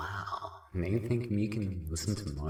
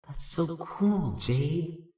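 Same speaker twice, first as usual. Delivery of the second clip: excited; 9 semitones higher, 4 dB louder, slower than usual. Acted. Thrilled by the planet music.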